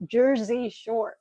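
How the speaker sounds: slow, careful, lips over gums. Real, not acted. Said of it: "it's hard to talk with no teeth in the bottom".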